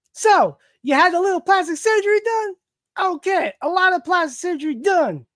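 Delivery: high cartoon villain voice; put-on villain, high and hammy; Joker. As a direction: pitch it up as a comic-book villain. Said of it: "All right, Joker".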